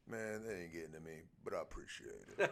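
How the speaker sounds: hint of a gruff referee brushing it off; rough little brrr voice. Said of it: "he's got that rough little brrr voice".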